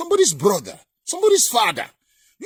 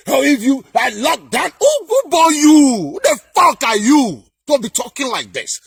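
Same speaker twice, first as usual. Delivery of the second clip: mock commanding. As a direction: imitate someone throwing orders around. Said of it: "He don't command us like this".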